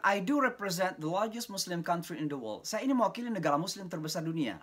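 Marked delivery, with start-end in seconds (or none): 0.1-2.6 slow, high, proud formal statement; formal announcement. Retold or imitated. Lecturer introducing himself to American students, slow and formal. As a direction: announce it to the hall with dignity. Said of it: "Kalau saya mengatakan".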